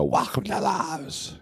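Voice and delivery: lightly put-on clerk singing out a welcome; mock cashier greeting. Clerk greets a driver at four in the morning, mock sing-song welcome. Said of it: "You know, they yell at you".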